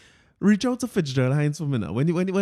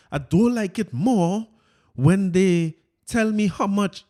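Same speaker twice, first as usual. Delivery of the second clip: Fitz voice; 4 semitones higher, 4 dB louder, slower than usual. Retold or imitated. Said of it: "let me get my Fitz voice here".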